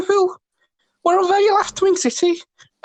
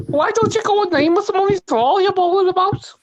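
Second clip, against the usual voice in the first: a singer's voice. Pretend. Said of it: "That's her".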